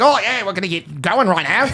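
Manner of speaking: playful Australian accent impression; mock Australian accent. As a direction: put on broad Aussie vowels. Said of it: "You got pretty close".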